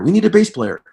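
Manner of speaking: a singer repeating his shout for a bass player; calling out again. Retold or imitated. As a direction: keep calling over the crowd. Carl repeats call.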